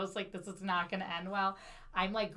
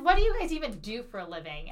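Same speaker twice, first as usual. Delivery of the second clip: retold rage; 7 dB louder, faster than usual. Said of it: "I was blackout with rage".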